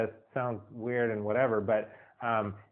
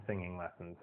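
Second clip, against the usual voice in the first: much softer, trailing off; fading out; 5 semitones lower, 11 dB quieter than usual. Shown as a demonstration. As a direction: let it fade away softly. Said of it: "repeated fading".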